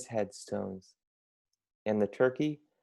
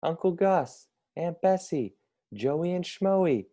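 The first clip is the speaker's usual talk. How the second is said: higher cheerful character voice; Vladimir greeting family; 7 semitones higher than usual. A narrator's reading. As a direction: greet the guests brightly, pitched up. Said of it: "he said".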